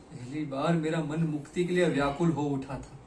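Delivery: fuller, insistent voice; impassioned recollection. Acted. Confessing a longing for freedom, impassioned recollection. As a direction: press it out with longing. Repeats phrase with rising feeling.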